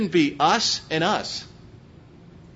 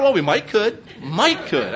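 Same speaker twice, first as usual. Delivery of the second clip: Texas talk; 4 semitones higher, 4 dB louder than usual. Shown as a demonstration. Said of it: "that's horrific grammar".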